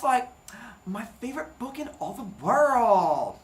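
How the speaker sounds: lightly voiced young starlet; a breathy-free gushing starlet. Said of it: "I nailed starlet voice".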